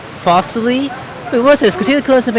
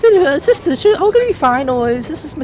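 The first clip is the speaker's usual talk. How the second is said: roleplaying a game character; 8 semitones higher, faster than usual. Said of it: "I was trying to roleplay".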